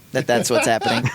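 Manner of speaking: laughing through the words. Real, not acted. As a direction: chuckle it out. Laughs while owning it.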